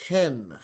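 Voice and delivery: "hen" with rough breathing, an H first; H sound at the start. Shown as a demonstration. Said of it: "here's a rough breathing mark".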